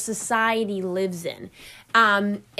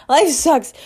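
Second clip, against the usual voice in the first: hammed-up Boston accent, louder and a bit higher; playful Boston accent complaint; mock Boston accent; 4 semitones higher, 6 dB louder than usual. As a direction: whine it in a put-on Boston accent. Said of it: "I'm going in with the Boston accent".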